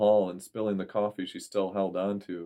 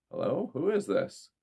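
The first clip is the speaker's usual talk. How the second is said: suspicious; 6 semitones higher than usual. A narrator's reading. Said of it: "with a suspicious voice".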